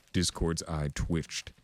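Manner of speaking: ordinary delivery, nothing marked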